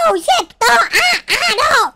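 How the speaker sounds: loud, high cries of alarm; panicked yelling. Real, not acted. Gamer slips during parkour, panicked yelling. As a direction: yelp as if falling.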